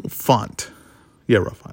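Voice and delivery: slurred, clumsy mouth; words mushy, like a numb mouth; mouth not working right. Real, not acted. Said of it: "my mouth doesn't work correctly".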